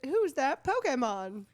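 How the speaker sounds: a hint of cartoon announcer; Jesse and James. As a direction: imitate the show's call-out with "kay" in Pokemon. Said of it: "that's how Jesse and James say it".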